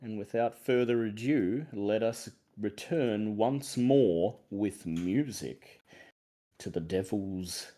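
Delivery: measured, theatrical host intro with drawn-out phrases; deliberate show-opening delivery with rising list phrases; game master's opening. Acted. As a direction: usher listeners into an eerie adventure. Game master opens the session theatrically.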